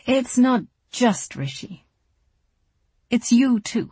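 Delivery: slow it down, steadier, still hurting. A narrator's reading. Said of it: "Then, more calmly".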